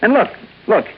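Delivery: he finally spots her face, thrilled; excited discovery. Acted. Finds her photo in mug books.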